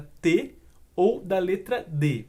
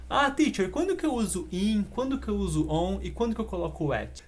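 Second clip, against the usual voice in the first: mimicking a student; 2 semitones higher than usual. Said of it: "essa pergunta dos meus alunos".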